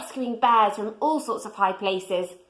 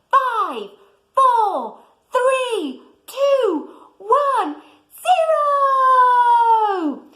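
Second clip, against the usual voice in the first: rising, louder countdown to launch; excited countdown; 12 semitones higher, 6 dB louder, much slower than usual. Acted. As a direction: count down high and thrilled, shouting zero.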